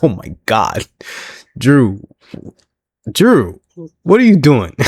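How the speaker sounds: rising disbelief, voice climbing on each name; pleading with Drew, half laughing; exasperated call to Drew; mock exasperation. Exasperated reaction to Drew's insult.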